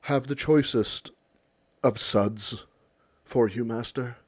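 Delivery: a lightly put-on posh butler, slowed and drawn out; snooty butler. Hinting at a butler who offers pricey beer to the millionaires, mild mock grandeur. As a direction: offer the beer like a fawning servant. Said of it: "They don't need it to be this high fucking".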